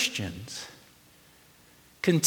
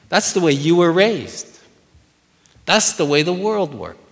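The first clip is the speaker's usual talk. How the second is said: sarcastic preaching; 4 semitones higher, 4 dB louder than usual. Shown as a demonstration. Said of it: "sarcastic or ironic here".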